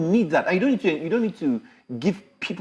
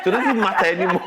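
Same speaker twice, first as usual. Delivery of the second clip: laughing; 4 semitones higher than usual. Real, not acted. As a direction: laugh through the denial. Teasing denial with laughter.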